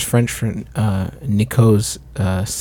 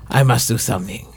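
put-on French accent; faster than usual. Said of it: "Where is this accent going?".

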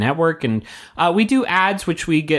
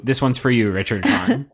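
tagline read. Acted. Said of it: "change the tagline".

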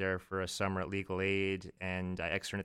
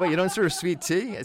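higher, louder disbelief through a laugh; laughing customer quote; 9 semitones higher, 7 dB louder than usual. Retold or imitated. Wendy's customer shocked at no sweet tea, laughing mock disbelief. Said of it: "They would come in and say".

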